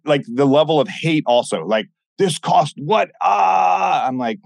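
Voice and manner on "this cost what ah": high, scoffing mock outrage at the price. Mocking haters balking at the program's price, scoffing outrage. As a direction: squawk it like an indignant hater.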